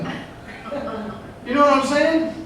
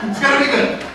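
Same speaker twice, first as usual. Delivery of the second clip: higher, mystic fortune-teller voice; mock psychic; 5 semitones higher than usual. Agent playing a psychic for the client, higher and mystic. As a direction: pretend to sense the future.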